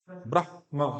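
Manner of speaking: ब्रह्मा in two syllables, "brah-ma"; half h. Shown as a demonstration. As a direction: only breathe the h of ब्रह्मा, then say ma. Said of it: "हा की ध्वनि भी आए".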